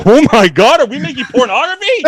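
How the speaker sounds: high startled squeal of disbelief; a sudden shocked cry. Retold or imitated. Realising mid-session, a high shocked squeal.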